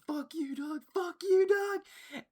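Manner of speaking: squeaky prank-call heckle; high-pitched mock yell. Friends leaving the coach a voicemail, high mock yell. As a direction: shout it in a silly high voice.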